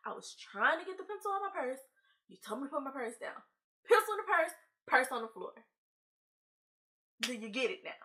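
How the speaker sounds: put-on high, spelling it out like to a child; exasperated explaining. Student explaining to the teacher again, exasperated.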